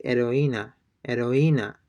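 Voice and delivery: heroína starting straight on the E, no H; silent H. Shown as a demonstration. Teacher copying native speakers, heroína with silent H. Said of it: "they're not pronouncing the H".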